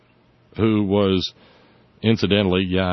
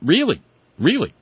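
incredulous; 7 semitones higher than usual. Real, not acted. Incredulous at the claim.

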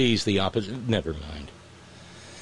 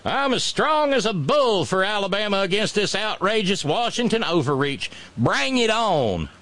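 mock governor; 9 semitones higher than usual. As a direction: drag out the challenge. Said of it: "maybe there was something to the".

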